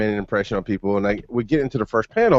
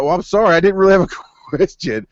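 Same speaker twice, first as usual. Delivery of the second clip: sheepish apology; 7 semitones higher, 3 dB louder than usual. Retold or imitated. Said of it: "I was like".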